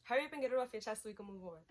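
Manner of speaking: fast, brushing-off delivery; dismissive quote. Retold or imitated. Boyfriend brushing off her anger, fast and dismissive. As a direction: rush it like you don't care. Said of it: "So then X goes".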